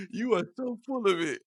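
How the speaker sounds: high mock London telling-off; high-pitched London accent; imitated scoffing Londoner. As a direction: mimic a Londoner calling someone's bluff. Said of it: "he's just going at my boy".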